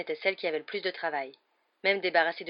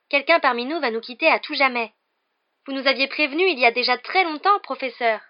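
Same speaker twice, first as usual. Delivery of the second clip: much higher, louder breathless eagerness; gushing fan; 8 semitones higher, 10 dB louder than usual. A narrator's reading. Lavande flattering Trelawney, much higher and louder eager gushing. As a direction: gush to your idol. Lavande excitedly recalls prophecy.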